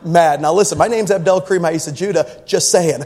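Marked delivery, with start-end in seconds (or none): 0.0-0.4 slow mock-polite calm, each word spaced; slow, deliberate. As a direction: spell out every word slowly through a smile. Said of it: "I put a smile on my face".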